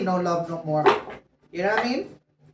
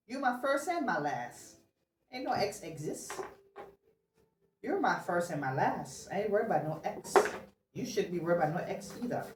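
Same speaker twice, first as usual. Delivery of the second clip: hushed partner's message; 8 dB quieter than usual. Acted. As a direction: lean in and promise it quietly.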